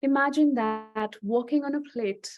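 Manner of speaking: measured phrases with long pauses between them; guided visualization. Acted. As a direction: lead listeners into an imagined scene, leaving space after each phrase.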